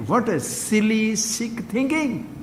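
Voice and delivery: slow, hushed disdain, dropping off; drawn-out, quiet contempt for the idea; slow scorn. Real, not acted. Guru mocks competitive thinking.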